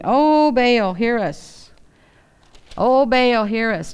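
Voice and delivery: loud, fervent plea to a god; earnest pleading. Retold or imitated. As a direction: beg Baal to answer, crying out. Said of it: "They are pleading with him".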